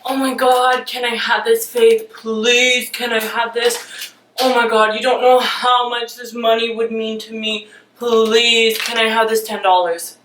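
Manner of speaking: hammed-up begging for cash; over-the-top whiny begging; mock pleading boyfriend. Boyfriend begging his girlfriend for ten dollars, hammed up. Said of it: "I am going to reenact this for you".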